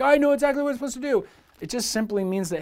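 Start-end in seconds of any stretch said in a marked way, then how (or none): 0.0-1.2 mock eager certainty. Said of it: "You're like".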